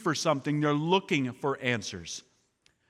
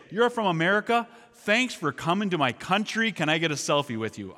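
higher, eager Iranian welcome that then settles; excited, delighted greeting; 4 semitones higher than usual. Retold or imitated. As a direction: beam at the American and ask for a selfie. Iranians greeting an American visitor.

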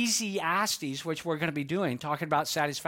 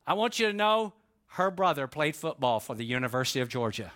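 a light hint of a proud old dad; proud father; 3 semitones lower than usual. Old father telling a senator about his son, lightly proud. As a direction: let the pride leak out, dry and lightly voiced. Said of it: "Dad says proudly then".

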